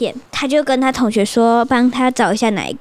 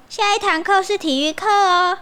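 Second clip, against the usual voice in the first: a hint of a cheerful teacher; 4 semitones higher, 3 dB quieter than usual. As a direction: announce it like a teacher to kids. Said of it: "老师说". (老师对学生宣布，轻快地说)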